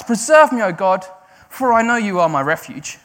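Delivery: loud high burst then steadier; shouting. Retold or imitated. David shouting out to God. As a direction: shout the plea, then trust. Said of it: "He shouts".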